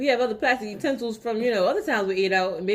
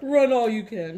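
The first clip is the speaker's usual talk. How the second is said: slow gloating villain line; villain taunt; slower than usual. Pretend. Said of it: "You do sound like a villain".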